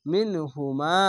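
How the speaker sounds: "মিন হু মা" with "মা" held long; drawn-out vowel. Shown as a demonstration. Teacher showing alif lengthening, last vowel drawn out. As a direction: stretch the a of "মা" one alif. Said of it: "যাবার পাশে খালি আলিফ এক আলিফ টেনে পড়বেন".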